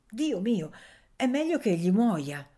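a blunt little judge; girl's verdict. Acted. (sentenza di bambina, più alta)

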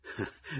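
short, soft, breath-only laugh; burst of laughter. A narrator's reading. Narrator laughs at mother-in-law's tirade, brief chuckle. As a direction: let a small laugh burst out. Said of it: "Scoppiai a ridere".

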